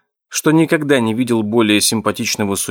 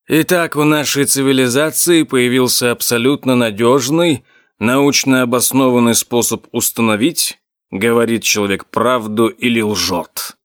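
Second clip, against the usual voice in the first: sarcastic. Acted. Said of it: "Голос оракула сочился сарказмом".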